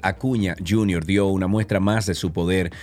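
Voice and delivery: emphatic sportscaster news delivery; sports news read. Acted. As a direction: kick off the baseball report on air. Host launches the sports report.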